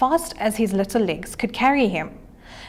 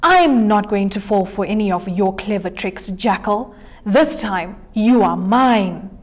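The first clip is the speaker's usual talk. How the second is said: menacing lion, slowing on the last words; a hint of a hungry lion's growl; lightly roared lion. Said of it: "licked his lips and roared".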